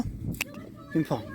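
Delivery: high and very slow "Give me Paul"; high coaxing. Real, not acted. Coaxing dog, stretched high.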